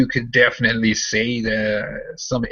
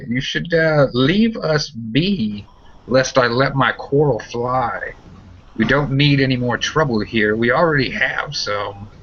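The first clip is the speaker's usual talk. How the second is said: stout woman with crossbow; 3 semitones higher than usual. Acted. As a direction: hold the crossbow steady and warn. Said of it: "and says".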